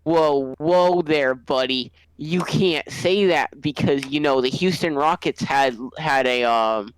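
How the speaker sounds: mock scolding. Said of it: "the N B A was like".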